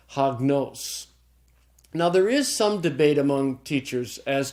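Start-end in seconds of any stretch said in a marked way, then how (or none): 0.1-1.1 hagnos slowly, stress on final NOS; stress on accented syllable. Shown as a demonstration. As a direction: say "hagnos" as hag-NOS, deliberately. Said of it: "And then there's the circumflex".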